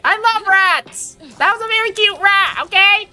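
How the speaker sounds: very high, squeaky and loud, overjoyed; high-pitched squeaky voice. Acted. Streamer overjoyed at catching a rat, squeaky high voice. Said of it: "high-pitched squeaky voice".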